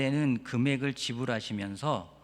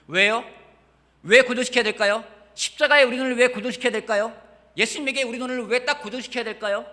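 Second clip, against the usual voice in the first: higher, louder rhetorical questions pressing hard; insistent preaching; 9 semitones higher, 11 dB louder than usual. Acted. Pastor pressing the congregation with why, loud and high. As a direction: hammer the question home.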